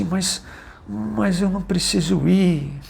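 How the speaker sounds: put-on high, child-like pleading voice of the son; son's voice. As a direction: speak up high like a small boy. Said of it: "falou assim".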